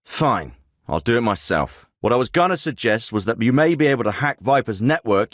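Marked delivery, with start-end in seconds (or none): 0.1-1.9 lowered, grudging grumble; exasperated resignation. Acted. Commander gives up on disobedient team, low exasperated grumble. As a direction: drop the pitch and give up on them.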